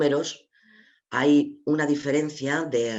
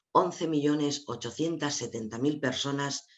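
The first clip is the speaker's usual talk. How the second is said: deliberate, carefully spaced figure; despacito. Real, not acted. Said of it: "lo voy a decir despacito". (despacito, marcando bien la cifra)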